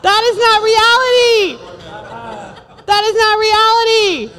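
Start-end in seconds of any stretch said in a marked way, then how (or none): none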